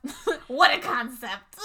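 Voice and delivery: lightly put-on celebrity voice, breaking into laughter; Natasha Lyonne. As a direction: stretch the last word with amused relish.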